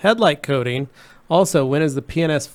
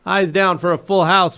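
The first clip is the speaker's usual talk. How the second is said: bingo caller; 3 semitones higher than usual. Acted. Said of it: "So in Bingo Lingo".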